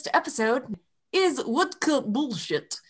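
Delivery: put-on hammy Russian villain accent. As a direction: fake semi-Russian accent. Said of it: "a stupid semi-Russian accent".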